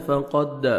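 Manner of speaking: "فقد" with short qa and pressed dal; firm doubled dal. Shown as a demonstration. Teacher showing shaddah, "فقد" with firmly joined dal. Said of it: "آپ نے سختی سے ملانا ہے".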